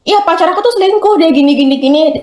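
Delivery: high chatty influencer voice; lightly voiced girly vlogger chatting; mock beauty vlogger. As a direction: play a chatty makeup seller. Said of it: "dosen cantik kan misalnya".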